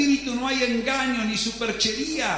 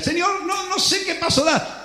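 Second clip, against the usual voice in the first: higher, halting anxious plea; confused believer; 7 semitones higher than usual. Acted. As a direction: stammer out helpless confusion. Believer pleads to God.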